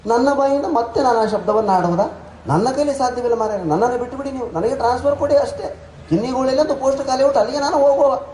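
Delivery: a hurt Udupi clerk protesting. Retold or imitated. Shenoy begs for a transfer. (Udupi ಗುಮಾಸ್ತನ ಎತ್ತರದ ನೊಂದ ಧ್ವನಿ)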